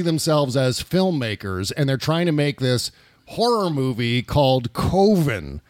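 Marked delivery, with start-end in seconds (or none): 3.3-5.6 put-on Minnesota accent. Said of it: "when they say that with that accent".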